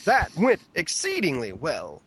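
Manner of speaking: lightly theatrical Shakespeare reading; a hint of Shakespearean grandeur; Shakespearean delivery. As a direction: declaim it a little, like stage Shakespeare. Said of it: "this is fantastic Shakespeare".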